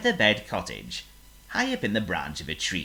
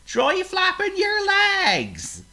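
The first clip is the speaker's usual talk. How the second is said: higher, louder, slow musing; a dim pig offering advice; slow-thinking pig voice; 8 dB louder, slower than usual. Acted. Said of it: "cried Oink".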